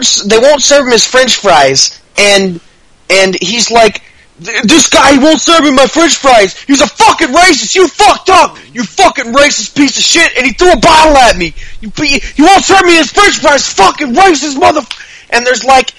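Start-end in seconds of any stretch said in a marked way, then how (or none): 4.4-15.3 high-pitched mock tirade; hammed-up screaming fit without much extra volume; Shia LaBeouf. Customer at a bowling alley refused french fries, mock screaming. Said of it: "screaming racist at the fucking bartender".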